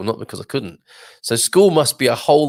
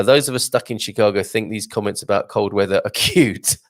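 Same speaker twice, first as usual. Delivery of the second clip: reads the comment through a real laugh; can't hold back a laugh at the end; amused, breaking into laughter; laughing while reading. Real, not acted. Reading a funny viewer comment.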